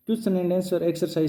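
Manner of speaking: dictating the heading at very slow pace; slow dictation of a topic title; slow heading read. Shown as a demonstration. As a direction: spell out each word slowly for the class. Teacher reads heading slowly.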